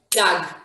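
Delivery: "dag" as one syllable, dahg; pronunciation demo. Shown as a demonstration. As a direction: sound out "dag" firmly with an open ah. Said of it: "This is how you would pronounce it".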